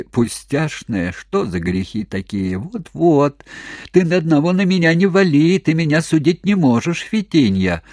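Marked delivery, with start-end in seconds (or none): 2.6-7.8 quick retort. A narrator's reading. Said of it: "быстро возразил старик Никишка".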